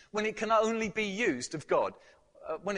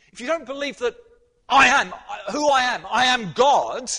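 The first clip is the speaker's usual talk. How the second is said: higher and much louder, building to God; preaching at full force; 7 semitones higher, 13 dB louder than usual. Acted. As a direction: thunder the warning from the pulpit. Preacher hammers the warning.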